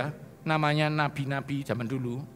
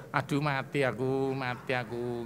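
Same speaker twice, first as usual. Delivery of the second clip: mock despair; 4 dB quieter than usual.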